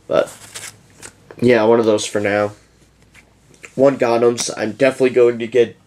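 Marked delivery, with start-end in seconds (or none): 4.6-5.8 words stretched by a yawn. Real, not acted. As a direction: talk through a yawn. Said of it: "Sorry for yawning so much".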